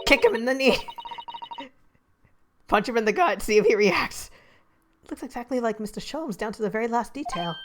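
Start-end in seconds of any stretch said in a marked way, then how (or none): 0.1-4.3 egging on. Acted. Egging on an attack.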